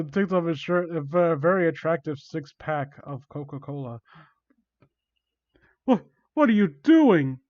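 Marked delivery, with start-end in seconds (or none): 5.8-7.4 high, loud, drawn-out stammer; panicked voice, a bit hammed-up; freaked out. Victim asks villain what he's doing, freaked out. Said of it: "freaked out".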